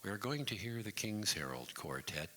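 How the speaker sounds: measured, formal on-air greeting; formal radio announcer. Acted. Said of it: "had to be very formal".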